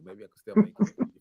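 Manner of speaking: high, fast, pleading to the pilot; frantic pleading. Retold or imitated. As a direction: beg the pilot to land, rushed and high. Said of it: "I'm like".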